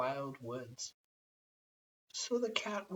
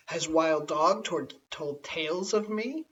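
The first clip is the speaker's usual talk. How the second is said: angry cat; 5 dB louder than usual. Acted. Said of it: "Cat grew very angry and said".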